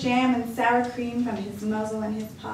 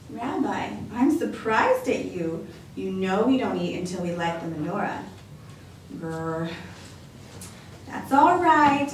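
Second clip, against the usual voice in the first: lightly voiced cheerful grandma welcoming a guest; a hint of a bright old lady; old grandmother voice. Baba Brana's voice.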